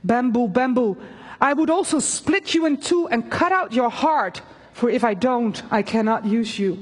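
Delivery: solemn storybook reading; story narration. A narrator's reading. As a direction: read the parable like a storyteller. Reads bamboo parable aloud.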